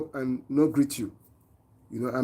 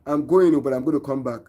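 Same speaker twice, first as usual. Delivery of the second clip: louder, emphatic example of the correct phrase; louder quoted example; 4 dB louder than usual. Shown as a demonstration. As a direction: lean on "I'm going" to make the point. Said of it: "Instead of him telling you that".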